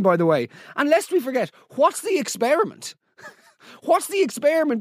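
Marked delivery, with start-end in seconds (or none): 0.8-2.9 higher-pitched disbelieving question; can't believe the experiment; incredulous. Real, not acted. Incredulous rant. 3.8-4.8 incredulous. Real, not acted. Laughing incredulous repeat.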